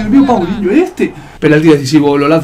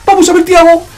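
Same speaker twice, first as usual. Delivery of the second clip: raised live play-by-play; wrestling commentator; 10 semitones higher, 3 dB louder than usual. Acted. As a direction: call the last attack like live TV. Play-by-play of last attack.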